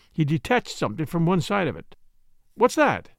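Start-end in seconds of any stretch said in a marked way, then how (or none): 2.5-3.1 higher-pitched, startled question; eager cry. A narrator's reading. Doctor to detective on seeing his find, an eager cry. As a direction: cry it out in mild surprise. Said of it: "I cried".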